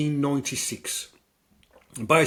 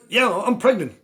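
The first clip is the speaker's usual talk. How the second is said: high, loud insistence; mock girl voice; 11 semitones higher, 9 dB louder than usual. Film girl insisting to the man, high and loud.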